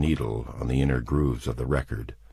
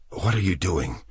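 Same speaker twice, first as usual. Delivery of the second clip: thick with sleep; 4 semitones higher than usual. A narrator's reading. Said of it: "voice still thick with sleep".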